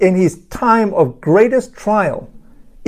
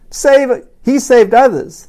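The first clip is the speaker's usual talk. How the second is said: mild scoffing; 5 semitones higher, 3 dB louder, slower than usual. A narrator's reading. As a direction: read with a touch of raised, mocking scorn. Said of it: "they scoffed".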